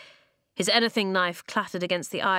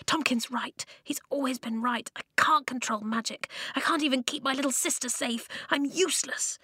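despairing; 6 semitones higher than usual. Acted. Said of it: "he whispered".

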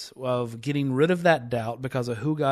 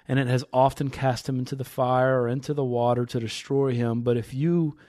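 measured, emphatic Bible reading; scripture reading; 4 dB louder than usual. Acted. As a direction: read the passage aloud with building emphasis. Reads scripture aloud.

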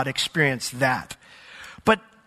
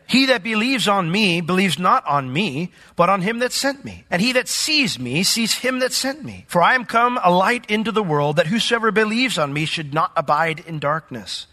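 higher-pitched scripture proclamation; crying out; 4 semitones higher than usual. Retold or imitated. Jesus cries out to the people, proclaimed in a raised voice. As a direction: read it as a raised, mildly forceful cry. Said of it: "he cried out and said".

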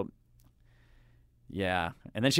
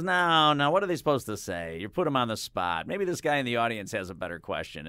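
high, loud opening objection, easing off; retold argumentative rebuke; 4 semitones higher, 3 dB louder than usual. Host imitating the singer arguing over his question, mock rebuke. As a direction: imitate someone cutting in to object. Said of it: "I started arguing with her".

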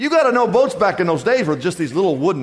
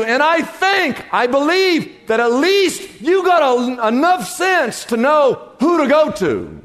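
impassioned preaching; 8 semitones higher, 4 dB louder than usual. Real, not acted. Preaches to struggling congregation.

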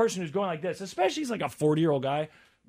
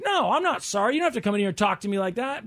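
defiant employee; 4 semitones higher than usual. Retold or imitated. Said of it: "the girl working there is like".

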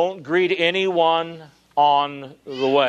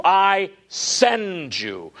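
slow, deliberate rendering; much slower than usual. Shown as a demonstration. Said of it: "The word send in the Greek".

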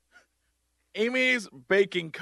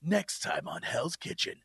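mock trailer voice; 4 semitones lower, 10 dB quieter than usual. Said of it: "they do, like, a".

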